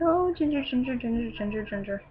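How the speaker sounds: retold giddy chant, trailing away; mild fangirl freak-out. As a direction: gush the nickname over and over, lightly. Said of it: "like, freaking out, be like".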